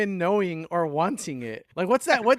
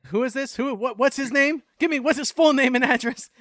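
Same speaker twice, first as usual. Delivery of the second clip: mock indignant demand; 11 semitones higher, 7 dB louder than usual. Mock outrage at friend's insult.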